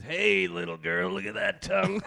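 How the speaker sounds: put-on slow, creepy dirty old man voice; old lecher. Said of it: "I have the greatest dirty old man voice".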